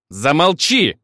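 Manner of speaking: near bark. Acted. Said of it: "почти рявкнула Милена".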